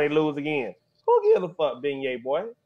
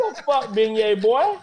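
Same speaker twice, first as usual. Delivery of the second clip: laughing shout; 3 semitones higher than usual. Real, not acted. Host laughing at the caller.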